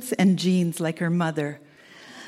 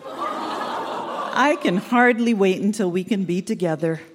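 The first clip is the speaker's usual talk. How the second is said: said through a laugh. Real, not acted. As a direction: laugh while saying you can't wait. Repeated line, laughing take.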